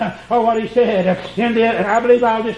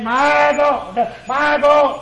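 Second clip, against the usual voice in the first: raised, higher cry of anguish; 4 semitones higher, 3 dB louder, much slower than usual. Acted. Preacher voicing Jesus crying out, loud and high. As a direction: lift it up like a cry from the cross. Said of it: "he cried with a loud voice".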